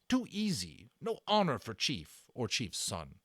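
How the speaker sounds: a stern warrior demanding the guns back; broken-English warrior voice, forceful; Little Bear. Acted. Little Bear explains wife's words.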